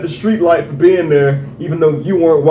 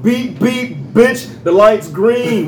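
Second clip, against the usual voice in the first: mock honking driver; 5 semitones higher, slower than usual. Imitating honk at driver.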